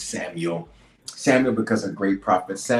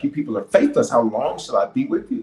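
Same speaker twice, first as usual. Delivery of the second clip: raised, exasperated quote of a teacher; frustrated. Acted. Preacher acting Jesus fed up with his people, frustrated. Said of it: "he gets frustrated".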